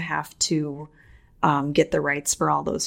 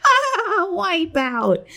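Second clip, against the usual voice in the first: surfer shout; 11 semitones higher, much slower than usual. Acted. Surfer call after surf rock.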